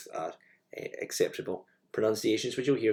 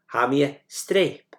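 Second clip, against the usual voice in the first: whispered model phrase; 4 semitones higher, 6 dB louder, slower than usual. Shown as a demonstration. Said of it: "teacher models Gaelic phrase".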